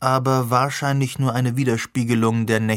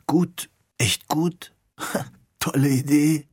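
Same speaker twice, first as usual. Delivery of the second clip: higher, slow, with a half laugh; hasty reassurance; 4 semitones higher, slower than usual. Acted. Alex reassuring his hurt brother, slow and higher with a nervous laugh. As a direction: patch things up with a nervous chuckle. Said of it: "zu versichern".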